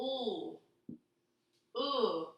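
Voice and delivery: drawn-out ooked, segment by segment; sounding out looked. Shown as a demonstration. Teacher sounding out looked slowly. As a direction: stretch ooked after a long oo. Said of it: "Let's sound that out".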